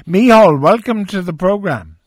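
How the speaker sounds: loud, bright call of the caller's name; calling out welcome. Real, not acted. Host calls guest onto show.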